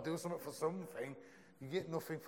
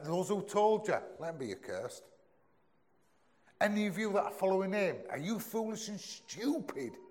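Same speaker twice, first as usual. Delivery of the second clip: higher and louder, fast accusing rant; aggressive Paul; 7 semitones higher, 3 dB louder than usual. Retold or imitated. Paul berating the Galatians, loud angry rant. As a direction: hammer them like a furious apostle. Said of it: "And he's nasty and he's aggressive".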